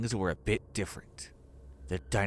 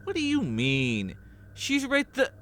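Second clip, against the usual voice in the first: put-on higher young man, sheepish apology; sorry Rich, higher voiced and flustered; Armando's voice; 5 dB louder than usual. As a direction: apologize awkwardly in a raised character voice. Narrator voicing Armando.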